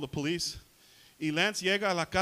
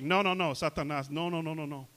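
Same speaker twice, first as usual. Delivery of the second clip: with authority; 3 dB louder than usual. Shown as a demonstration. Preacher shows how to speak to Satan, with authority. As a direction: forbid him as one with authority. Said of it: "You can speak to him with authority".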